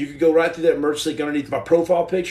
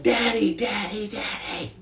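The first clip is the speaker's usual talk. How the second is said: put-on kids yelling; 5 semitones higher, 4 dB quieter, slower than usual. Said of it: "these kids just start yelling".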